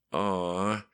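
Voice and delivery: touched and smiling. A narrator's reading. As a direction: say it with a smile. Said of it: "smiling through her swollen lips".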